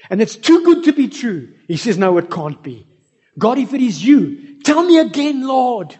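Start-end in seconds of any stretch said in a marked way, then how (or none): 2.0-5.9 higher, louder, rising disbelief; incredulous plea. Retold or imitated. Desperate man hearing the echo, asking God again in excited disbelief. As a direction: beg for a sign in awe.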